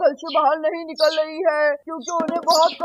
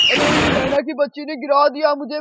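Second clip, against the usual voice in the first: shouted complaint. Acted. He has fallen off the bicycle.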